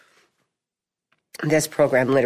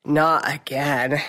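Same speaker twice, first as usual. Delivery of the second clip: mock weary groan; much slower than usual. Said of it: "the people in my ward are like".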